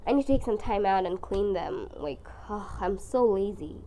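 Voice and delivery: hoarse, strangled flu voice; croaky, strained sick voice. Real, not acted. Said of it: "It literally sounds like a strangled whale".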